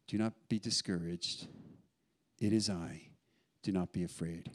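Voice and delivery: soft, low, settling comfort; calm them with long pauses between phrases; tender voice of Jesus; gentle reassurance. Acted.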